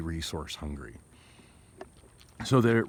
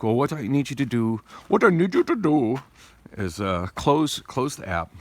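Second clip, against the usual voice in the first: attempted Indian accent; 5 semitones higher, 4 dB louder than usual. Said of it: "I can't even do that accent".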